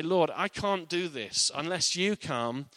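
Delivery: desperate prayer. Acted. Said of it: "We say".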